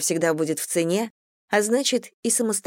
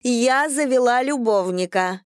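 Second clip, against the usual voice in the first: tipsy announcement; 6 semitones higher than usual. A narrator's reading. Tipsy Olga announces loudly.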